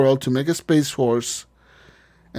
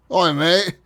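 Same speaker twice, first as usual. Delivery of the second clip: mock British accent; 3 semitones higher than usual. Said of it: "He has a British accent now".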